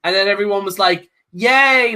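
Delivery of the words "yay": half-hearted mock cheer, a bit higher; a hint of a forced crowd yay; fake cheering. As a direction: cheer like you don't mean it. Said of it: "fake cheering".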